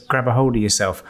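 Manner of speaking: lightly put-on Los Angeles rap accent; a rapper's accent. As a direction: rap the lines in a mild LA West Coast accent. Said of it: "I'm gonna say it in his accent".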